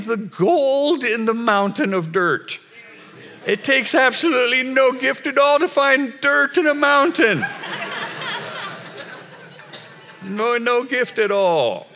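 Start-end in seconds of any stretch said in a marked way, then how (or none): 3.5-11.9 high, laughing, emphatic; emphatic exclaim. Real, not acted. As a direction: toss it off with a laugh.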